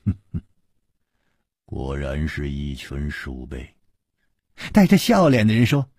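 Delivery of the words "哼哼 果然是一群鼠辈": cold contempt. Acted. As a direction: spit it out coldly. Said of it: "冷冷地说".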